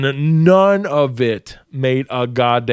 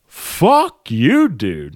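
retold defiance; much slower than usual.

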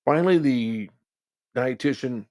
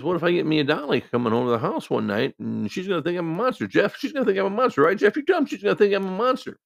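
whiny plea; 9 semitones higher, 4 dB louder than usual. Retold or imitated. Patient whining about CPAP.

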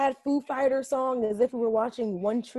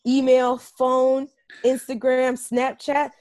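mock-indignant woman listing grievances; acted-out scorned woman; indignant rant; 3 semitones higher, 4 dB louder than usual. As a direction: count off each outrage, a little louder. Mimicking a woman blocked by ex.

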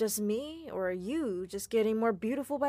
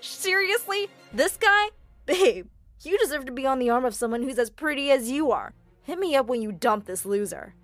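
mocking sneer; 4 semitones higher, 7 dB louder than usual. A narrator's reading. Louis mocks her boyfriend.

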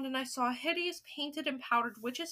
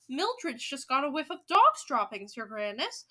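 raised-voice report up to the boss; calling back; 5 dB louder than usual. Acted. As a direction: call it out across the room. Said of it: "someone called back to her".

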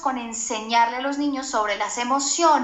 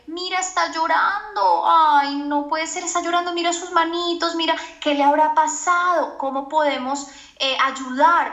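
put-on tender parent to child; 4 semitones higher than usual.

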